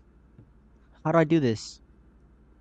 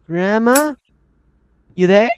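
high, loud call that cracks upward; cracking, rising question; 5 semitones higher, 6 dB louder than usual. Real, not acted. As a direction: call out nervously, voice breaking high. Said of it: "My voice just cracked like shit".

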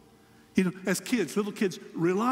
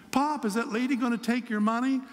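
put-on higher, eager three-year-old voice; excited little grandson; 5 semitones higher than usual. Preacher voicing his grandson asking about the fair, higher eager child voice. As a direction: voice the curious little boy asking his pop.

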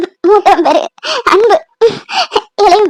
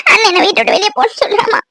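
tearful complaint; 4 semitones higher than usual. Acted. Daughter begs mother, crying.

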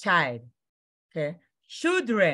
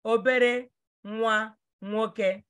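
slow teaching say; 2 semitones higher, slower than usual. Shown as a demonstration. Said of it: "I want you to learn how to pronounce it".

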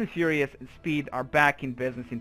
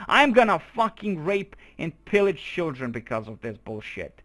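real rage, shouted and swearing at the game; furious rant; 5 semitones higher, 7 dB louder than usual. Real, not acted. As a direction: blow up at the game at full volume. Rage over a game mishap.

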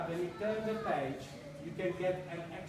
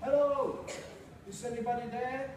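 shouting mouse; 5 semitones higher than usual. Acted. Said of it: "she shouted".

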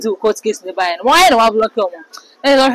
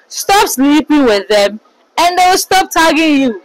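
taunting jibe; 5 semitones higher than usual. Retold or imitated. Quoting a comment.

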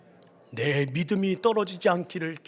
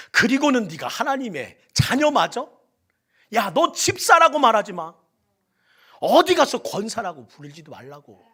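louder, higher scornful accusation; accusing taunt; 3 semitones higher, 8 dB louder than usual. Acted. Satan accusing a believer, loud scorn. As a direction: rub their failure in their face.

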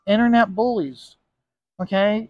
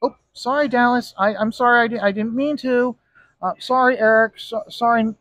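meek apology; 3 semitones higher than usual. Pretend. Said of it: "if Dallas were to yell at me".

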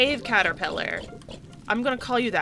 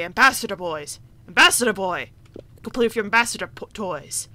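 mock schoolyard taunt; 5 dB louder, faster than usual. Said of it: "and they'd say".

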